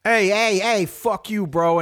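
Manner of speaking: hammed-up stadium heckler shouting back; imitating a drunk fan yelling. Fan retells heckler yelling at a rival fan, mock angry yell. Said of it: "this guy's like".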